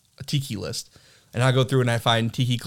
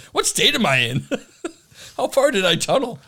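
confused; 9 semitones higher than usual. Retold or imitated. Confused tunneler voiced.

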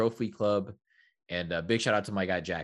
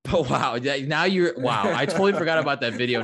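excited; 7 semitones higher, 5 dB louder than usual. Real, not acted. Laughing excitedly about video.

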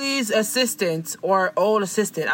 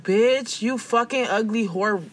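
mock telling-off; 2 semitones higher than usual. Assistant telling off the rude celebrity, mock angry rant. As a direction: lay into them in playful outrage.

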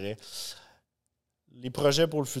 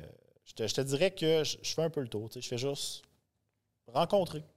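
muffled behind a Batman mask; through a face mask; 3 dB louder than usual. Real, not acted. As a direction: speak through a costume mask. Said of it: "ça fait spécial de parler avec le masque". (voix étouffée par le masque)

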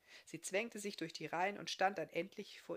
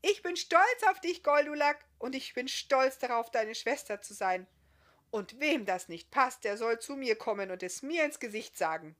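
sehr laut und hoch gerufen; stolzer Ruf; 6 semitones higher, 8 dB louder than usual. Acted. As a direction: schleudert es stolz der Menge entgegen. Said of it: "Dann rief sie". (Schwester ruft laut und stolz vor allen)

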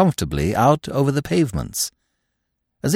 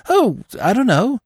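mumbled; 3 dB louder than usual. A narrator's reading. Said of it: "he mumbled".

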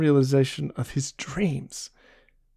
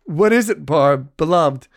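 higher, louder, urgently eager; eager question; 4 semitones higher, 4 dB louder than usual. Acted. Jean to Barbe, pressing her eagerly for what's wrong. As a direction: press her anxiously for an answer. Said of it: "he questioned eagerly".

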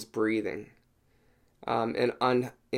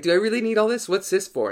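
high, disbelieving questions; incredulous; 9 semitones higher, 4 dB louder, faster than usual. Retold or imitated. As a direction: sound shocked at the pile of pills. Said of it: "And I was like".

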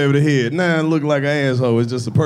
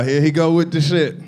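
normal talking voice

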